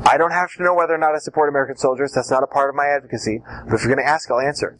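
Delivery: quick, obliging, then settling down; just being nice to the examiner; trying to be nice. Shown as a demonstration. Witness tells the examiner they will answer anyway. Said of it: "you're just trying to be nice".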